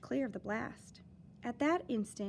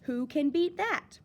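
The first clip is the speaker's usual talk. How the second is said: slow, louder bragging dare; boastful challenge; 6 semitones higher, 7 dB louder than usual. Acted. Steam drill man brags to the crew, slow loud challenge. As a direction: throw it out like a dare. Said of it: "a new man bragged".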